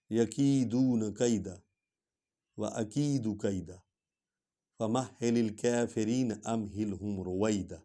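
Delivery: slow melodic tilawat; Quran recitation. Acted. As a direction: recite the closing verses in measured tajweed.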